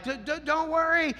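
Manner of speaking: high-pitched, stuttering imitation of the owner; stammered reassurance. Owner placating the walker from his car, stammering.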